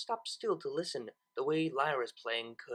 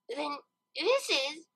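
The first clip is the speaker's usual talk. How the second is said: Lyra; 10 semitones higher, slower than usual. Acted. Lyra's squeaky voice, realizing.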